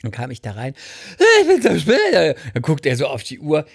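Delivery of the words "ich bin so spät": high, breathless apology; flustered. Retold or imitated. Arriving late at the clinic, flustered high blurt.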